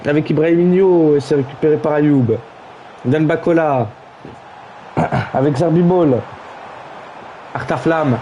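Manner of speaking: calling the passes name by name; live play-by-play as the move builds. Acted. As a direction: follow the ball like a live commentator.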